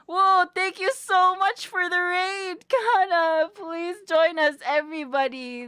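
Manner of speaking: hyped streamer thank-you; excited welcome. Real, not acted. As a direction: greet the raid with delight.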